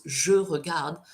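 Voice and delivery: "je regarde" with silent final e; present-tense pronunciation. Shown as a demonstration. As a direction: say "je" with a schwa, end "regarde" on the d. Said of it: "you pronounce".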